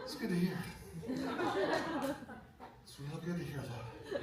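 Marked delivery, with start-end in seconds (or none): 1.1-4.2 slow. Acted. Drawn out, laughing.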